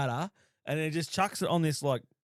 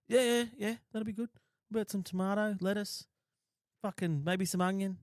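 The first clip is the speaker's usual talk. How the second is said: eager order; 5 semitones higher than usual. Retold or imitated. Eager order at chip shop.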